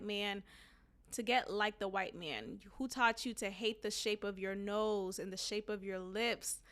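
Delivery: low, quiet read-aloud voice; reading a speech aloud. Acted. Host reading Malcolm X's speech to listeners, subdued read-aloud. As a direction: read the quoted speech out evenly, softly.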